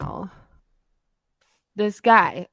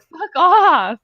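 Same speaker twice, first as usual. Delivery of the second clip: slow dismissive; 8 semitones higher, 5 dB louder than usual. Real, not acted. Dismissing troll, slow and loud.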